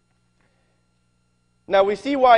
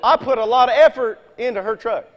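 laughing; 3 semitones higher than usual. Real, not acted. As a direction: admit it with a laugh in your voice. Joking correction, laughing.

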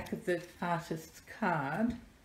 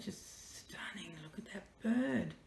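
awed whisper; 7 dB quieter than usual. Real, not acted. Whispering to viewers about the bird. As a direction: breathe it out in quiet wonder.

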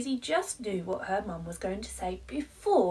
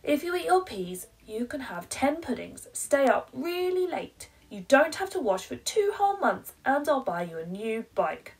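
higher, louder and fast bargaining; pleading mum; 6 semitones higher, 6 dB louder, faster than usual. Acted. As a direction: bribe the child, getting more eager. Mum bargaining, growing wilder.

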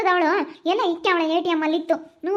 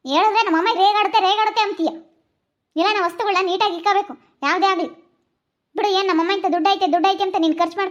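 heated, aggrieved ranting; angry nagging. Acted. Mother berating her daughter over spent money, angry nagging. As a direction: lay into the girl over money. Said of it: "ಹುಡ್ಗಿ ಮೇಲೆ ಯಾಕ್ ಹಂಗ್ ರೇಗಾಡ್ತೀಯ".

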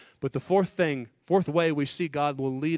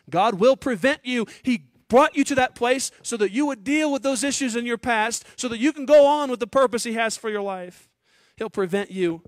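preaching at full force; 8 semitones higher, 6 dB louder than usual. Acted. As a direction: proclaim it from the pulpit with full force. Preaching climax on hard places.

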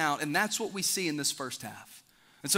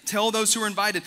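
loud, raised and high, calling the guests in; king's proclamation; 6 semitones higher, 4 dB louder than usual. Acted. King sends servants, calling loudly to the guests. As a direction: announce it like a king summoning guests to his feast.

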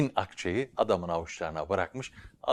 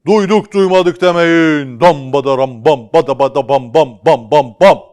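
town crier; 8 semitones higher, 19 dB louder than usual. Acted. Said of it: "tellal devam ediyor. Diyor ki".

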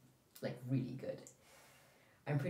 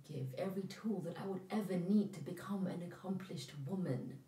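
quiet sincerity; 6 dB quieter than usual. Acted. Daughter earnestly reassures mother.

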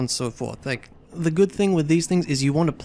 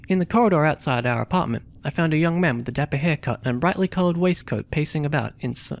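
reading the game text aloud as a story; story narration. A narrator's reading. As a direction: narrate it like an adventure novel. Reads story and character dialogue.

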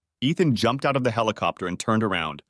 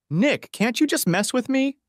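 much higher, slow plaintive plea; pleading; 14 semitones higher than usual. A narrator's reading. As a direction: beg Nick in a high, drawn-out voice. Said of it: "pleaded Monty".

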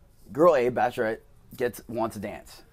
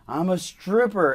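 mock yell, higher and louder, drawn out; slow, raised-voice reenacted shout; retold yell; 8 semitones higher, 6 dB louder, slower than usual. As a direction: call it out slowly as if across a distance. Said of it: "And I just yelled".

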